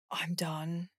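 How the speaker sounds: softly voiced inner thought of giving up; quiet resignation. Host imagining her moment of giving up, quietly resigned.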